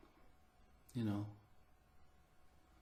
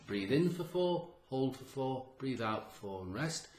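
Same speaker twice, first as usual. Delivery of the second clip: guided breathing count; 4 dB quieter than usual. Shown as a demonstration. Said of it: "You do that exercise".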